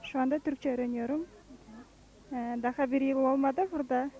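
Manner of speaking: Kyrgyz accent, careful learner's Turkish; halting Turkish with Kyrgyz accent; foreigner broken turkish. Real, not acted.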